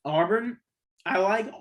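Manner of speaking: interrupted by a hiccup. Real, not acted. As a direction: speak through the hiccups. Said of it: "got the hiccups".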